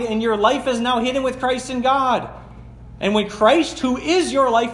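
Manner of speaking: ringing preacher's reading voice; preaching. Acted. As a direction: proclaim the verses to the congregation. Preacher reads scripture.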